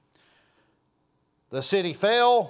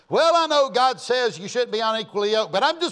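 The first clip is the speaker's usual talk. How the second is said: higher, faster mock excuse; mock careless Christian; 5 semitones higher, faster than usual. Preacher mimicking a careless believer, flippant mock voice.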